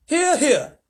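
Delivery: high, loud cheer; cheering shout. A narrator's reading. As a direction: shout agreement. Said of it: "they all shouted".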